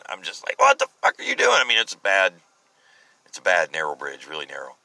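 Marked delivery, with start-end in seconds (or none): 0.6-1.5 high-pitched, indignant outburst; retold cussing. Driver cussing at truck passing on narrow bridge, retold cussing. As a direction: cuss out another driver in a high voice. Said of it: "I'm cussing this son of a gun".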